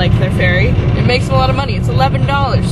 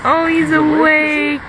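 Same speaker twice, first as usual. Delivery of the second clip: overwhelmed by cuteness; 4 semitones higher, slower than usual. Real, not acted. Cooing over koala.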